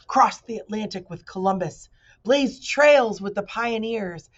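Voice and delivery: loud, grand boasting speech; pompous humbug. Acted. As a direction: puff up with family pride.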